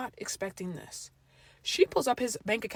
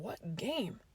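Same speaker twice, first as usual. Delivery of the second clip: a much softer inner aside; inner thought; 10 dB quieter than usual. Retold or imitated. Narrator thinking to herself, softly. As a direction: say it under your breath to yourself. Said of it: "I'm thinking".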